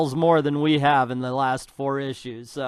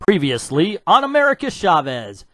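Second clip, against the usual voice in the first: loud, hammed-up recap intro; mock show announcer; 6 dB louder than usual.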